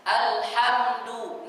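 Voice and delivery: alhamdu said very slowly, each sound held; slow recitation of alhamdu; drawn-out alhamdu. Shown as a demonstration. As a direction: stretch out alhamdu carefully.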